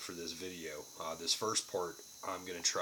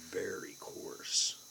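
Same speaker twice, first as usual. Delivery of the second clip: whispering; much slower than usual. Real, not acted. Whispered aside while showing snuff.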